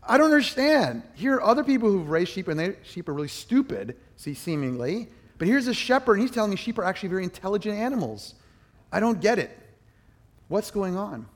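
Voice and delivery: high, loud puzzled thinking aloud; baffled inner voice. Retold or imitated. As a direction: sound baffled by the contradiction. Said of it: "I'm thinking".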